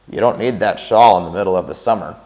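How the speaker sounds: a hint of Tuck, eyes shut; lightly voiced drowsy husband. Tuck to May as she dresses, lightly voiced. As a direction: talk from bed without looking.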